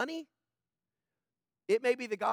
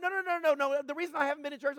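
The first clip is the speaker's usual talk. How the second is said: mock defensive excuse; 5 semitones higher, faster than usual.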